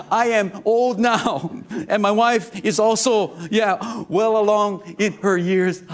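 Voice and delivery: high, slow and loud with laughter; a frightened old man pleading, half laughing; scared, laughing. Retold or imitated. Pastor plays the scared old priest to the church, laughing. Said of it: "He's scared, right?".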